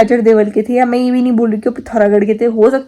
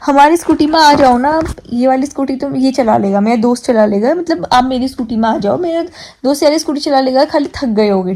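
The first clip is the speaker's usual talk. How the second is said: a hint of a coaxing roadside stranger; mock pushy invite. Retelling to viewers, the stranger's invitation lightly mimicked. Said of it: "ऐसा कुछ बोला उन्होंने कि".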